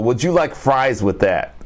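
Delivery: lightly voiced pushy salesman; mock pitch to countries buying planes; fast food upsell. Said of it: "he goes in for the upsell".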